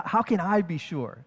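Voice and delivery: weight falls on I; attention on himself. Acted. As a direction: stress on I in "how can I be sure". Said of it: "He's putting the attention on himself".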